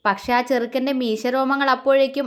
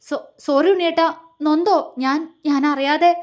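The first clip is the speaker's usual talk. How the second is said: higher, faltering apology with a stammer; voice breaking; 3 semitones higher than usual. Acted. She apologises to Unniyettan for biting him, voice breaking. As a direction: stumble through the sorry, close to tears. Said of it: "ഇടറിക്കൊണ്ട് അവൾ ചോദിച്ചു".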